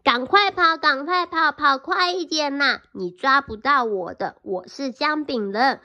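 a mild mock yell of a boastful cookie; loud taunt. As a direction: shout it right at the fox. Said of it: "用很大声、很大声音说".

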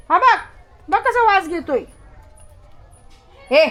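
ordinary delivery

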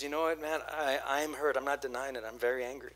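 steady and sincere, working through hurt; hurt but forgiving. Retold or imitated. Congregant telling the pastor, quiet and sincere. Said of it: "the response is".

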